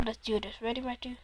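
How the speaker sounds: hushed whisper to his friend. Real, not acted. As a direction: breathe it out under his breath. Whispering so the opponent won't hear.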